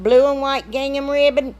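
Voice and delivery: unintentionally loud announcement; said too loud. Real, not acted. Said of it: "I don't know why I said that so loud".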